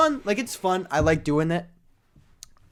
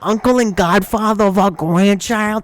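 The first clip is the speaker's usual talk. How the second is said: much higher, louder mock outrage; indignant family; 5 semitones higher, 7 dB louder than usual. The grandparents complain about the uncle's jokes, mock outraged. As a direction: rant like a scandalised grandparent. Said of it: "the family's so like".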